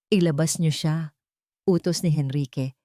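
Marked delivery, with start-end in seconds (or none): 0.1-1.1 quiet firm order. Acted. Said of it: "hindi na nagtatanong".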